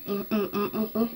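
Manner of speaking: closed-mouth hums while swishing; swishing mouthwash hum. Shown as a demonstration. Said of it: "swish it in your mouth".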